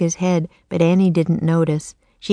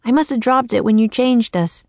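put-on high little-girl voice, croaked; a girl turned raven, croaking; 6 semitones higher than usual. Annie to Jack in the nursery, high croaking girl.

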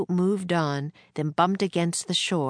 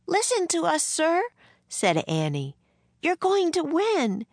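put-on pleading girl; 13 semitones higher than usual. A narrator's reading. Girl pleads with George Washington, urgent. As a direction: beg him to believe her.

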